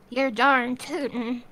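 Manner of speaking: slow cowboy drawl on You're darn tootin'; cowboy accent. Shown as a demonstration. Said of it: "Try saying".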